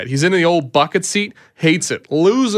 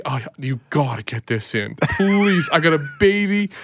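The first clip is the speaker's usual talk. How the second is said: retold begging. Customer begs the tire guy to fit him in, mildly pleading. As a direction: plead your case, lightly hammed-up. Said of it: "I start begging this guy".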